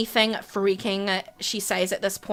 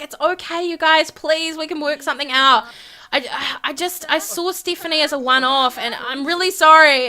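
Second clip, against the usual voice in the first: higher-pitched, lightly acted pleading; pleading apology; 4 semitones higher than usual. Whitney calming the couple, pleading. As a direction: plead with them in a raised pitch.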